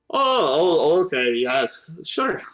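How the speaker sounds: mildly flustered, agreeable gnome; lightly voiced gnome. Gnome agrees to postpone the chat, a touch flustered. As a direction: give way politely in a lightly put-on voice. Corky answers Apple, voiced by GM.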